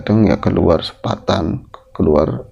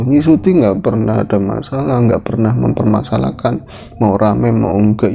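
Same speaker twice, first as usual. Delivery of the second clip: ordinary delivery, nothing marked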